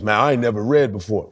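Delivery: put-on low American hick accent; mock country American accent; dumb American. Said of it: "in America, when someone's dumb".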